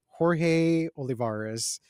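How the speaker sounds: Jorge Olivares said the English way, flat American vowels; anglicized name. Retold or imitated. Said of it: "I had to say".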